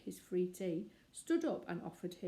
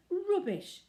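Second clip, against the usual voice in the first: loud, higher spluttered outburst; spluttering; 13 semitones higher, 8 dB louder than usual. Acted. Mister Curry rejecting Mister Gruber's charge, spluttering angrily. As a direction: splutter it in outrage. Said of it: "spluttered Mister Curry".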